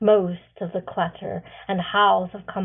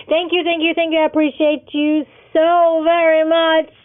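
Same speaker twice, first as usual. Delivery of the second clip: loud, higher, eager sign-off; excited outro; 7 semitones higher, 10 dB louder than usual. Real, not acted. The author thanks her subscribers, loud and excited. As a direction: thank the viewers with big enthusiasm.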